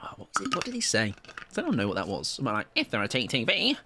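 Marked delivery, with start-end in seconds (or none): 2.8-3.8 lightly put-on voice with a rising end; mimicked voice. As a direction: do a slight impression of his catchphrase. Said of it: "I said it in that voice".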